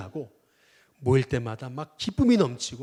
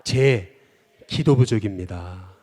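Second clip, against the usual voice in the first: slow call to repeat; 3 semitones lower, 4 dB louder, slower than usual. Shown as a demonstration. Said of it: "한번 따라해 보겠습니다".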